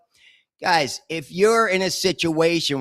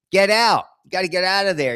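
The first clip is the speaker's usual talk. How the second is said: a sudden louder, higher call to get out; begging a friend to leave, raised voice; urgent plea; 3 semitones higher, 4 dB louder than usual. Real, not acted. Urging an old friend directly.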